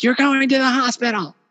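high, insistent mock Pat voice; imitating Pat. Retelling how Pat insisted on the hospital, in a high mock voice. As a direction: squeak it out like a bossy friend taking charge. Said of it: "she's like".

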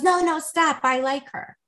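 high-pitched quick plea, easing off; retold urgent interruption. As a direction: imitate someone stopping a friend mid-action. Acts friend halting the swipe.

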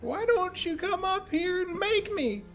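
put-on squeaky taunting child; high giggly taunt; high-pitched kid voice. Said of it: "his voice cuts into weird, really, like, high-pitched giggling".

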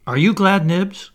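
high, loud, excited question; eager child asking. Acted. Toodles asking the other boys in turn, eagerly.

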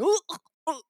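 retching ughs, high pitched; repeated high disgusted ugh sounds; high disgusted groans. Retold or imitated. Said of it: "I'm going".

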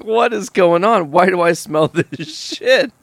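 laughing confusion. Retold or imitated. Confused friend smelling cat mess.

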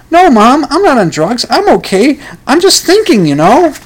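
high, pleading denial; pleading protest. Acted. Son insisting to his mom he's fine, high and pleading.

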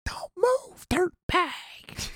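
high put-on tough cop line. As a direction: bark it like an action movie cop. Quoting a movie cop line.

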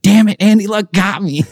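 high hammed-up groan of defeat; mock defeat. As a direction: playfully admit he got you. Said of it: "And I was like".

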